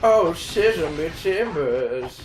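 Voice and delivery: slow, drawn-out pirate line; hammed-up pirate voice; pirate catchphrase. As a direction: stretch it like a cartoon pirate. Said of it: "That's how he talks".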